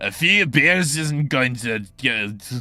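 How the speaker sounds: put-on loud, very slow, sloppy, slurred drunk talk. Voicing a character who has had a few beers: drunken slurring. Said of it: "and he starts slurring".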